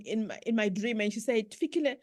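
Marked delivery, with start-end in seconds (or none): 1.5-2.0 tough-love mother. Retold or imitated. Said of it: "she gave me what we call tough love".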